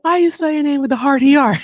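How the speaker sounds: a hint of the mom's scolding tone; imitating his mom. Retelling how his mom questioned the spelling, a lightly voiced mom. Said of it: "She said".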